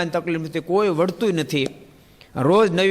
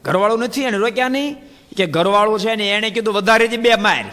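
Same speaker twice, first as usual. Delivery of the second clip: animated retelling; 5 semitones higher than usual. Retold or imitated. Dialogue retold with excitement.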